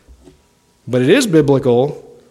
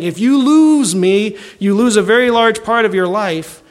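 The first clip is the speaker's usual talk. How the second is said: high, slow voice of money tempting a man; the inheritance's own voice calling to the man in the crowd, high and slow; money talking; 8 semitones higher than usual. Retold or imitated. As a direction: coax slowly and high, as the money itself. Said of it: "He said it was saying".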